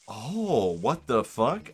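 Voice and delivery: sudden loud, rising what the fuck; shocked surprise. Real, not acted. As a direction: blurt it out in real shock. Notices Yemen in Mario background.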